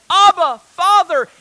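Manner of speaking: high, loud cry to the Father. Retold or imitated. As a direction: call out fervently, pitched well up. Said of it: "cry out to Him".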